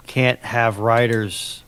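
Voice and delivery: ordinary talk, nothing marked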